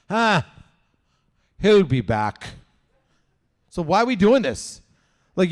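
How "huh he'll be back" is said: put-on ominous old dad. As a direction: say it like a weary prophet. Dad watches raccoon flee.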